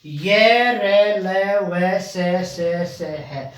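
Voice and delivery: ये रे ले वे से read out one by one, slowing down; listing letters slowly. Shown as a demonstration. Teacher reading out the remaining letters. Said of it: "एक line रह गई है".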